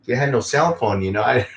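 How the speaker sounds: normal talking voice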